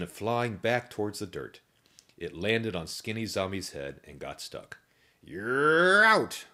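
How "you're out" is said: high, loud umpire call; umpire yell. A narrator's reading. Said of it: "Umpire Zombie yelled".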